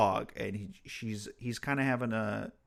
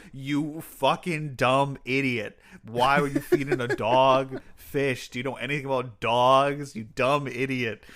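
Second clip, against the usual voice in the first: rude; 3 semitones higher, 5 dB louder than usual. Retold or imitated. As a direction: berate her like a fool, half laughing. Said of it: "That was so rude to her".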